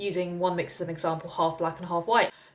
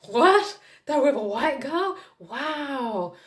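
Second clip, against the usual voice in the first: high, surprised mock gawk; relatives gawking; 8 semitones higher, 4 dB louder, much slower than usual. Relatives gawking at her white date, high mock surprise. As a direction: play the gawking relatives, wide-eyed. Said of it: "They're like".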